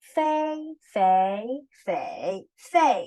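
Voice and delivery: fei through the four tones; four Mandarin tones. Shown as a demonstration. Teacher drilling tones on fei. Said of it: "Xia yi ge".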